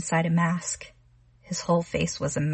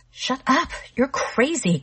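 frightened outburst; 7 semitones higher than usual. Acted. Connie yells at Arnold through the door, scared shout. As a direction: shout him down in terror. Connie snaps back in fear.

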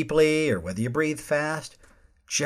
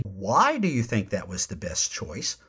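softer, lower, curious question; calmer tone; 5 semitones lower, 3 dB quieter than usual. Shown as a demonstration. Host modelling a calm question to a colleague, softer and lower. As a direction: ask it quietly, trying to understand. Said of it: "it's a calmer tone".

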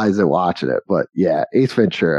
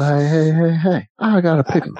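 higher, lightly voiced little kid; 4 semitones higher than usual. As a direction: call out like the pickle kid. Acting the Little Rascals kid.

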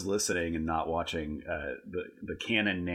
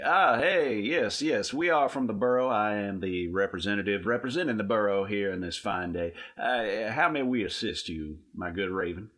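higher, louder self-important greeting; pompous leader voice; 3 semitones higher, 4 dB louder than usual. Acted. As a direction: puff up like a bossy official.

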